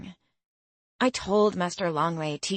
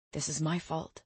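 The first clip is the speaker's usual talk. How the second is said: much softer, hushed guilty whisper; 2 semitones lower, 8 dB quieter than usual. A narrator's reading. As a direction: breathe it out, full of guilt. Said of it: "he whispered".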